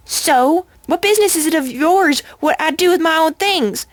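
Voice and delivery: put-on a possessive old pony turning nasty; changed voice. A narrator's reading. Old pony turns on the unicorn, angrily defending her ring. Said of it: "Granny Smith's voice, shape, and manner have suddenly changed".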